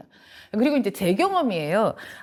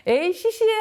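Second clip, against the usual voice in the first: put-on higher playful child scoff, smiling through it; smiling mock scoff; 10 semitones higher than usual. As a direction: brush it off with a grin, like a pleased kid. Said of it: "하면서 미소를 지어요".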